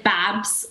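"babs" with a short open a for babes; Lawrence Chaney's vowel. Shown as a demonstration. Contestant showing how Lawrence says it, "babs" with short a. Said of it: "I feel like Lawrence says".

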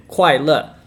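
快乐 both falling fourth tones, slow. Shown as a demonstration. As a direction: drop sharply on 快 and on 乐. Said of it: "in the fourth tone".

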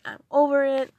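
loud, high, exasperated cry; fed-up outburst. Retold or imitated. Frustrated in her car, she yells loud and high. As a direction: blurt it out, totally done with it. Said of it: "crying and I was just like".

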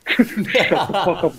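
slow, laughing through shut the fuck up; embarrassed laughing retort to a teasing friend. Retold or imitated. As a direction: say it while cracking up, drawn out. Retold snap while laughing.

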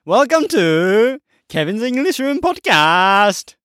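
slow, high Southeast Asian accent. Shown as a demonstration. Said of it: "in a Southeast Asian accent".

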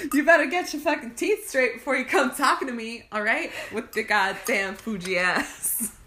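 sassy mock threat. Scolding the Fuji apple.

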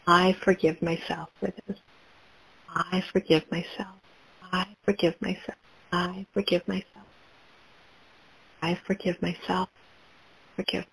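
hushed, fading to a near whisper; soft affirmations. Acted. Guide voices self-forgiveness for listeners, hushed and fading.

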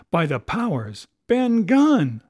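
a high, loud roar as the name hits him; pirate roaring out a realisation. A narrator's reading. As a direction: bellow the name in sudden recognition. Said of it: "roared Silver".

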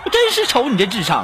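comically indignant telling-off, rising in pitch; hammed-up scolding outburst; mock angry rant. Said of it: "我破口就大骂".

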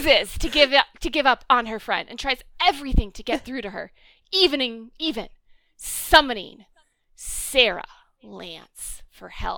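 mock dramatic trailer read, slowing at the end. Shown as a demonstration. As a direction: drag out the final reveal. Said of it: "in my dramatic voice".

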